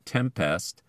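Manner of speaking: Tempest, stressed TEM-pest; stress on first syllable. Shown as a demonstration. Podcaster showing accent shift, Tempest stressed on TEM. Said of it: "endings pull the accent closer".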